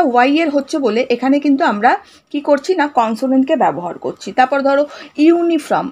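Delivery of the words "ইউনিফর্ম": "ইউনিফর্ম" starting with a Y glide, "yoo"; Y sound onset. Shown as a demonstration. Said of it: "ওয়াই এর উচ্চারণ হচ্ছে".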